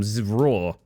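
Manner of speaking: a small mock dinosaur rawr; play-roar like a cute dino. Shown as a demonstration. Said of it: "That's I love you in dinosaur".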